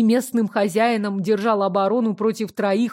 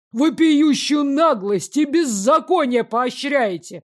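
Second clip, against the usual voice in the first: angry accusation; 3 semitones higher than usual. Acted. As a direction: berate the old man furiously. Angry father accusing the steward.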